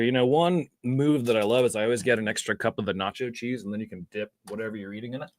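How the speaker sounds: talking through a mouthful; chewing between words; mouth full. Real, not acted. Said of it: "just take another bite here".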